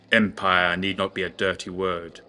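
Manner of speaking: grand, preachy declaration; pontificating. Acted. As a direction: pronounce it like a sermon on empire. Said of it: "in his pontificating way".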